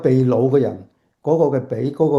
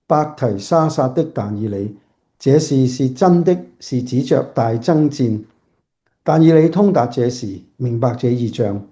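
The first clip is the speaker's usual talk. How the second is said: scripture reading. Acted. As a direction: read the verses aloud with solemn care. Reads the scripture passage aloud.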